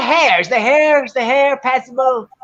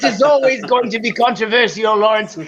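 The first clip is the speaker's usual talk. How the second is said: mock British accent. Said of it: "perfected your accent".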